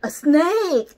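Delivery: loud, booming alarm cry; an elephant trumpeting in fright. A narrator's reading. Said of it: "trumpets Elephant".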